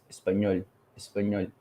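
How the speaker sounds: "español" with a close, unstretched Spanish O; "español" softly, final O not opened; Spanish pronunciation. Shown as a demonstration. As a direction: say "español" as in Spanish, O kept small. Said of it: "But in Spanish, it's".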